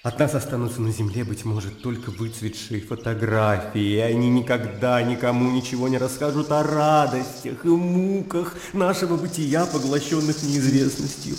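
impassioned speech swelling and falling; heated, searching outburst at a friend; agitated tirade. Acted. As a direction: argue heatedly, with mounting anguish. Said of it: "А ты вот кричишь".

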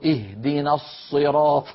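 slow recited "الصراط" with lips pushed forward; lip-rounded Sad. Retold or imitated. Student reciting before his sheikh, slow puckered Sad. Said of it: "فزممت شفتي هكذا إلى الأمام".

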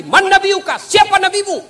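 high, loud interrogating angel; stern angel asking. Acted. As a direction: boom the grave question down from above. Angel asks about the prophet. (malaikat bertanya dengan suara tinggi dan keras)

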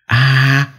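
sudden high scream of pain; young wife screaming from her room in pain; piercing scream. A narrator's reading. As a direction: shriek out from the next room. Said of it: "tiếng hét thất thanh".

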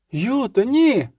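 high, sharp pleading cry; pleading protest. A narrator's reading. A companion protests as Jutta rides off alone, high pleading cry. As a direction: cry out to stop her.

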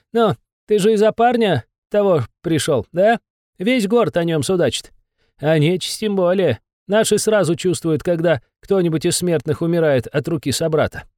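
high, anxious little demon; a cowed imp giving in; nervous demon voice. Acted. Besov gossips.

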